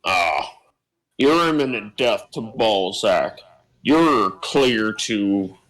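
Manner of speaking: lightly voiced dispatcher, slow and drawn out; slow, halting clearance over the comm, lightly put on; voice on the other end. Dispatcher clearing an arriving ship to dock, lightly voiced role. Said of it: "you hear the voice on the other end say".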